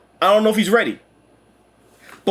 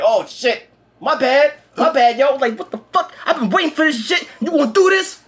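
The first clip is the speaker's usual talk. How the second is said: high, laughing sheepish hero voice; laughing mock apology; 6 semitones higher than usual. Heroes caught by the villain, sheepish and laughing. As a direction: squeak out a sorry while laughing.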